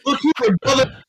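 loud, high hype wrestler voice; wrestling promo. Pretend. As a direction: play the big wrestling star. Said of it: "This turned into a wrestling promo?".

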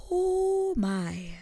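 high breathy oh my; stunned whisper. Real, not acted. After the queen threatens Eloise, high whispered shock.

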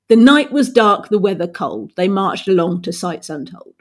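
"The night was dark" in steady beats, stress on "night" and "dark"; metrical verse demo. Shown as a demonstration. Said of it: "so this would be trochaic tetrameter".

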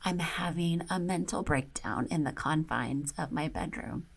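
hushed whisper of a confession. Retold or imitated. Admitting her breakdown in the bedroom, whispered. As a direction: breathe it out like a secret.

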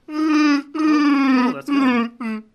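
loud, high Wookiee howl; Wookiee roar. Pretend. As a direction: roar it like Chewbacca. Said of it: "Would you like to hear mine".

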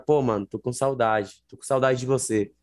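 casual Brazilian Portuguese, saudade said the Brazilian way; Brazilian Portuguese phrase. Shown as a demonstration. Teaching a friend the word saudade, in easy Brazilian Portuguese. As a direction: say it like a Brazilian friend missing someone. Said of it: "tú le dices a una persona".

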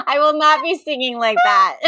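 laughing. Real, not acted. Laughing after mock opera.

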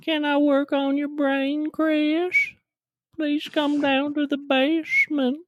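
put-on very high falsetto creepy old-man voice; drawn-out, high old-man impression. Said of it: "tell me you're gonna work on my brain with that".

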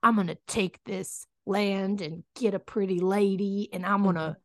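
lightly hammed-up cowboy; mock Western cowboy. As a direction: play a movie gunslinger, stretching the last words. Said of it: "the vibe of a, a Western is".

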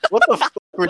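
high loud outburst; shouting. Real, not acted. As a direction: blurt it out in outrage. Ranting at bad intro.

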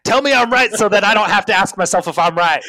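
high, loud demand for reassurance; mock insistent plea. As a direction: act out a needy plea, pushed high and loud. Acting out a need for reassurance.

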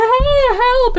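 high, frantic cry for help; panicked call for help. Retold or imitated. A mother calling help for her collapsed child, high panic. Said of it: "she's like".

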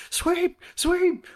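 high yelled command; shouting teammate. Acted. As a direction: call it down the ice. Acting out a curling teammate.

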